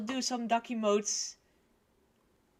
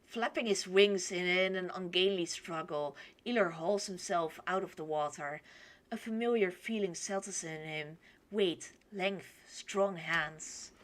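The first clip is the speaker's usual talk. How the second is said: story narration; 2 semitones lower than usual. A narrator's reading. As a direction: read it evenly as a storyteller.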